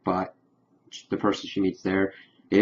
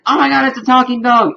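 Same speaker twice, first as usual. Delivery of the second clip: very high, loud, amazed squeal; mock freak-out; 13 semitones higher, 5 dB louder than usual. Spider-Man reacts to a talking dog, mock freak-out. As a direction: play up the astonishment at top pitch. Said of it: "they were freaking out over each other".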